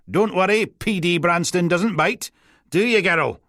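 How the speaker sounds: high, loud, breezy dog-handler's voice. A narrator's reading. Dog handler to the assembled officers and his dog, high-voiced reassurance. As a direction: call it out high, like a cheery handler.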